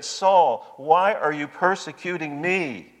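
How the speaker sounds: emphatic divine challenge; Jesus confronting Saul. Retold or imitated. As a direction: ring out the name as a summons. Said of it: "And Jesus said".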